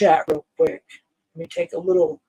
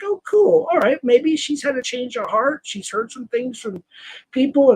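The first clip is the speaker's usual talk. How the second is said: higher, light mock delight on the oh; retold pleased surprise; 4 semitones higher than usual. To Jen, retelling her hopeful first reaction, mock delighted. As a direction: replay a hopeful little gasp of relief. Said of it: "I was like".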